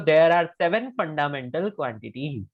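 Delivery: slow, word-by-word dictation for students to copy; there are seven fundamental quantities dictated slowly, word by word. Shown as a demonstration. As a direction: spell it out slowly so they can write it down. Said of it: "तो directly लिख लो".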